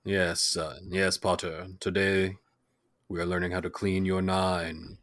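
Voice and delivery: low, quiet British schoolmaster voice; mock British accent. British teacher instructing Potter about his gun, mock British accent. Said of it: "but they're all still British".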